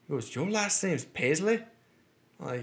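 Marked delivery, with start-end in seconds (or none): 0.3-1.6 slow, high, disbelieving question; incredulous Irish cabbie. Retold or imitated. Cabbie questioning the passenger's last name, incredulous. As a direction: imitate an Irish driver who can't believe it.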